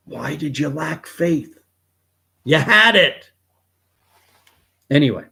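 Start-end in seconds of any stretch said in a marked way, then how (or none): 0.1-3.3 higher-pitched, exasperated rebuke building to a loud outburst. Retold or imitated. Jesus rebuking a sinking Peter, exasperated and rising. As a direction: start incredulous, then burst out high and loud. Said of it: "Jesus rebuked him and said".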